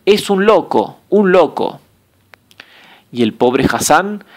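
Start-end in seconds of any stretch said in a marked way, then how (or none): 0.1-1.8 crowd shouting. A narrator's reading.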